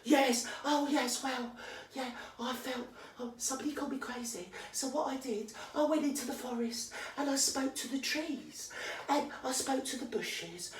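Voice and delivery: mock dreamy poem voice. Ranter parodying the podcaster's poem, soft and dreamy. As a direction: send up a precious nature poem.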